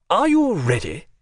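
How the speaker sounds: a brisk visitor cutting in; the Englishman. A narrator's reading. Englishman interrupts the parting.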